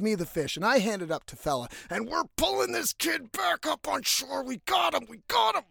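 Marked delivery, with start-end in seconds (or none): 4.4-5.1 excited. Retold or imitated. Pulling kid up onto shore. 5.1-5.6 triumphant shout. Retold or imitated. Friends hauling the kid back onto shore, shouting in triumph.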